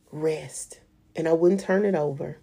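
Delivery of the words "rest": a hushed, calm single word; hushed divine reply, almost a whisper; soft whispered answer. Retold or imitated. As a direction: answer softly and still. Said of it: "God's answer, soft".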